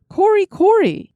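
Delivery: a lightly voiced gruff peddler exclaiming; rough exclamation. A narrator's reading. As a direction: bark it out like a gruff old peddler. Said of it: "roughly exclaimed the soba man".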